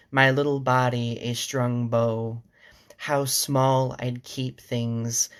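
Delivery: measured poetry recital with pauses between lines; unhurried, deliberate verse reading; poem reading. Acted. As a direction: read the poem aloud, letting line endings linger. Reads a poem aloud to viewers.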